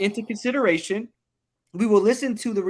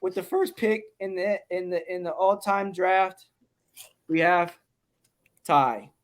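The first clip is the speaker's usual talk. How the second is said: draft announcer. Acted.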